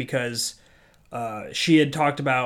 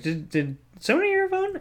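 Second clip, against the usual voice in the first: much higher, put-on questioning voice; mock instructor. Instructor asking the class who had a phone, mock high voice. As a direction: play the instructor's pointed question.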